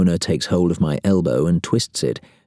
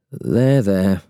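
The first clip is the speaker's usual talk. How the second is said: mutter; 2 semitones higher than usual. A narrator's reading. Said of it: "I mutter".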